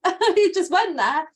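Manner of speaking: real laughing, slow and high; giggling at her own broken voice. Real, not acted. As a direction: laugh through the words at her cracked voice. Voice cracks while apologizing.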